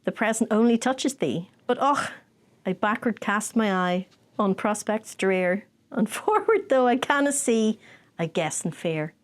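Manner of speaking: slow Scots verse, fading to a sigh; closing Burns verse in a Scottish accent; Scottish poem recital. Shown as a demonstration. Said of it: "That's in Scottish".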